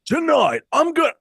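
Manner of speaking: high, loud mock promo voice; hammed-up announcer. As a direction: belt it out high like a hammy interviewer. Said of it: "the guy's like".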